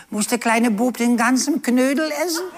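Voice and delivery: high voice breaking into a shout of laughter; child's question, laughing. Retold or imitated. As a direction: ask it as a child, already laughing. Child asks aunt, laughing. (kindliche Frage, lachend herausgerufen)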